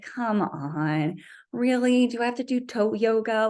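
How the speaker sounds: mock eye-rolling disbelief; retold scepticism. Runner who thought the feet thing was ridiculous, sceptical. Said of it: "I've always thought the feet thing was ridiculous".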